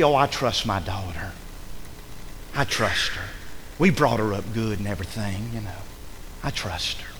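low, soft, unbothered reassurance; complacent father. Acted. Jacob defending his daughter, quietly complacent. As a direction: play a dad brushing off the worry, hushed and low.

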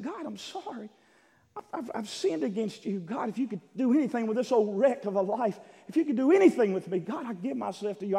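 high-pitched, pleading preacher's prayer; retold repentant prayer. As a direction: plead to God, building in urgency. Acts out his prayer of repentance.

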